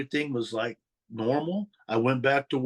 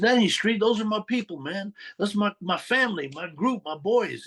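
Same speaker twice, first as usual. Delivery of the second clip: higher, heated defense of his friends; defensive teen; 5 semitones higher than usual. Retold or imitated. Teen defending his crew to mob boss, heated. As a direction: stand up for your boys.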